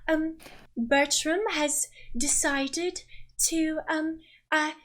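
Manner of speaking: a lady chiding her daughter playfully; theatrical mother. Acted. The mother speaks to guests.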